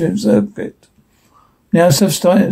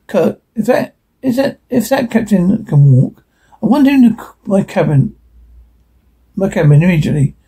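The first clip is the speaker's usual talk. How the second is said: upset. Acted. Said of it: "That fellow sounded a mite upset".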